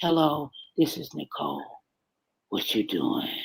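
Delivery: deep, very low, put-on seductive phone voice. Showing how to sound sexy over the phone: put-on sexy phone voice. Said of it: "I be trying to sound sexy over the phone".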